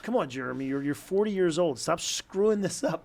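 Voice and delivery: mild exasperated self-talk, rising in pitch; mock frustration with yourself; retold self-scolding. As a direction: lightly tell yourself off, slowing on the last phrase. Retells scolding himself.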